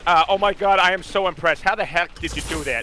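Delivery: cartoon-character impression; playful cartoon impersonation of amazement; Peter Griffin. Shown as a demonstration. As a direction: act impressed in a put-on character voice. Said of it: "Is Peter Griffin impressed?".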